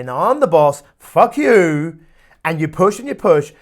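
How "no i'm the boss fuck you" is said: loud, forceful mock defiance; defiant comeback. You overrule your unconscious, loud and defiant. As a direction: shout down your own brain. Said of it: "You turn around and you sit and say".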